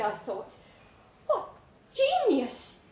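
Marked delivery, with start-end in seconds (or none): 1.3-2.8 soaring, louder cry of wonder; awestruck exclamation. Acted. Narrator marveling at the recipe, soaring mock awe. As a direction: burst out in mock rapture. Narrator's ecstatic inner thought.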